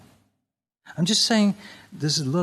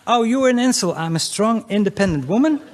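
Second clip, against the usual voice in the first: mock indignant woman; 5 semitones higher, 4 dB louder than usual. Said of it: "are they saying".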